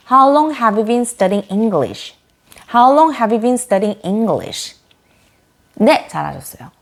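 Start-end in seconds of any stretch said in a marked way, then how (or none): 0.1-4.8 "have you been" run together smoothly as one unit, slowly; linked have you been. Shown as a demonstration. Teacher models linked "have you been" for learners, slow and smooth. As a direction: glide "have you been" into one chunk without breaks. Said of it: "have you been을 착착 붙여서 발음해보세요".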